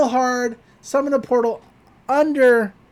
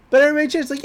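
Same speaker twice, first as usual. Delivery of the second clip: fast, laughing; laughing through words; 6 semitones higher, much faster than usual. Real, not acted. Recapping the cheering crowd while laughing. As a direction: blurt it out mid-laugh.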